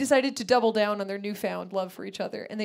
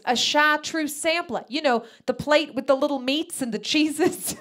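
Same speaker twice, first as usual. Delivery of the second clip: mom impression; 6 semitones higher, 5 dB louder than usual. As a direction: explain it like it's obvious. Mom explaining, higher, slow.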